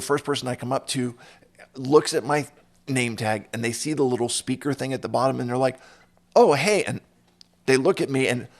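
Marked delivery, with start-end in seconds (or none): 6.4-6.8 excited greeting. Retold or imitated. Greeter recognizes speaker name tag.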